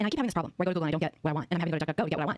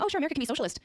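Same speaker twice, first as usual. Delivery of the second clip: higher-pitched, breezy mock concession; mock agreeable quote; 6 semitones higher than usual. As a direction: imitate someone happily going along. Mock quote of opponents' position.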